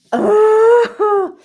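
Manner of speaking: high, loud gasping cry; emotional gasp. Real, not acted. Overwhelmed by a book scene, a sudden gasp. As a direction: catch a sharp breath as tears come. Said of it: "I'm getting emotional".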